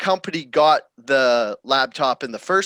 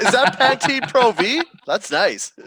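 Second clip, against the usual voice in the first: mock creepy voice; 8 semitones higher, 4 dB louder than usual. He's like.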